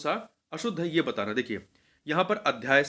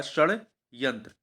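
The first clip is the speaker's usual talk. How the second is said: slow spelling-out; much slower than usual. Shown as a demonstration. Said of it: "यहाँ पे बिंदी नहीं बल्कि हलंत होता है".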